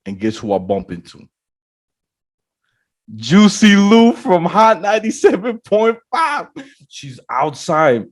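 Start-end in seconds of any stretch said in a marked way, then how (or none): 3.1-6.5 high, loud radio-style name announcement; excited big reveal. Real, not acted. Storyteller reveals who he bumped into, excited big reveal. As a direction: hit the reveal like a hype announcer.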